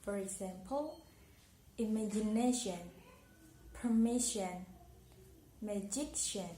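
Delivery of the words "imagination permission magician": "imagination, permission, magician", each peaking before the ending; stress on second-last syllable. Shown as a demonstration. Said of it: "stress is on the second last syllable".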